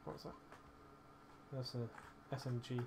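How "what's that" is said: squeaky voice crack. Real, not acted. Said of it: "What the hell happened to my voice".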